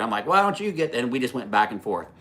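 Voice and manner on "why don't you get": retold comeback. Retold shouting back at driver.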